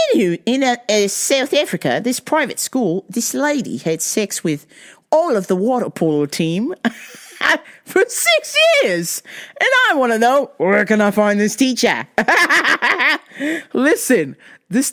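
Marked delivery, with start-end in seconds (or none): 0.1-12.1 put-on wobbly South African accent, drifting Australian; jokey Australian-sounding South African accent; faux South African accent. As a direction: keep up a badly faked South African accent. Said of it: "It sounds Australian".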